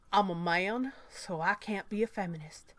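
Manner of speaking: lightly put-on manly southern accent. Reading the article's anti-feminist man aloud, southern accent. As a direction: put on a bit of southern manliness. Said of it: "I did that in a southern accent ... made me sound manly".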